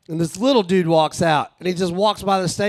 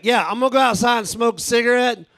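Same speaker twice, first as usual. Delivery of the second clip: lightly voiced dude, higher pitch; imitating one-eyed dude; 5 semitones higher than usual. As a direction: mimic the helpful patron in a raised voice. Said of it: "And he's like".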